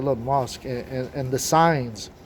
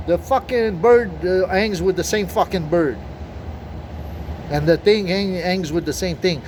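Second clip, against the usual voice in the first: heated rant; 5 semitones higher than usual. Real, not acted. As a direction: push it up, worked up and fed up. Heated rant about comfort.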